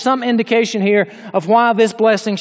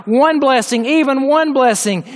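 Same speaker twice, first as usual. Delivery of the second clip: mild, higher-pitched plea; bitter cry; 5 semitones higher than usual. Retold or imitated. Preacher voicing Esau who lost his blessing, mild bitter cry. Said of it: "to cry out in a bitter cry".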